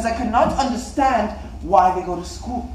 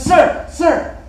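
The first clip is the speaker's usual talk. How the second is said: loud, high call for attention; 8 semitones higher, 7 dB louder than usual. Acted. Schoolboy trying to get his teacher's attention, calling out.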